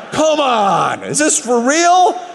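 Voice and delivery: dad losing it in the car; exasperated shout. Retold or imitated. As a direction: yell it out in total frustration. Baby throws up in car.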